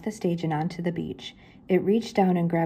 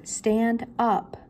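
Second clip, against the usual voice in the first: shouted; 5 semitones higher than usual. Acted. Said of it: "shouted together".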